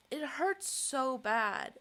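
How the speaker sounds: slow, tearful, voice breaking; crying. Real, not acted. Vlogger crying to camera over not being believed, tearful. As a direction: cry the words out slowly. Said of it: "This is a very interesting cry".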